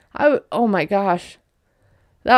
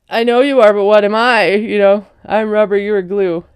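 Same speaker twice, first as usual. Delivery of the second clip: louder, sing-song schoolyard taunt; mock him like a kid on the playground; childish comeback; 4 dB louder than usual. Husband throws a schoolyard taunt back at his wife, louder and sing-song.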